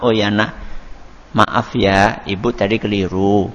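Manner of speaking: low, softened motherly apology. Shown as a demonstration. Mother apologising to her child, voice turned down. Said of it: "Langsung minta maaf".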